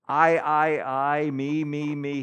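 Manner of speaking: lightly voiced vain king; a hint of a vain king; mock self-absorbed king. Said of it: "Nebuchadnezzar walks out and just".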